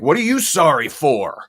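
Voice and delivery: aggressive. Retold or imitated. Texan answering a polite sorry in the grocery store, mock aggressive. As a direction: imitate someone mad at an apology, lightly. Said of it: "They're, they're aggressive. They're mad".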